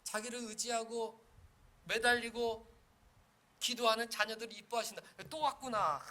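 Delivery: preaching at full force; fervent preaching. Acted. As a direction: build up the delight. Preaching climax on God's delight.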